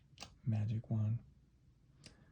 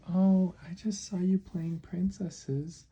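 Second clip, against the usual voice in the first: wistful little mouse; 4 semitones higher than usual. Acted. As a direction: plead as a mouse longing to join in. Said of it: "And the mouse said".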